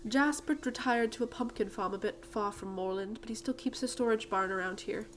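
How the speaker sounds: lightly acted British lady; British accent. Miss Holdsworth tells where Jasper is, British accent. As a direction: give directions in a British accent. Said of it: "I gave her a British accent".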